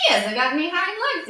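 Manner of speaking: a wild rabbit jeering at the toy rabbit; calling out. A narrator's reading. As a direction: shout it out to mock him. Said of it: "he called out".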